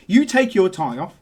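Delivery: fast, high rallying speech building to shouts; fired-up dock worker. Acted. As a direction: whip him up like a motivational preacher. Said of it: "He goes".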